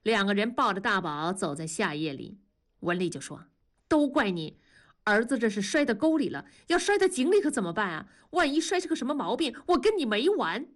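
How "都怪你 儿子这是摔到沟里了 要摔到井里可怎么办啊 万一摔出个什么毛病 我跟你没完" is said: 2 连珠炮似的快速数落丈夫; 3 越说越急，语速加快，调子抬高; 1 气急埋怨. Acted. 夫妻吵架，妻子埋怨. (4 妻子抱着孩子气急地埋怨丈夫，快而高)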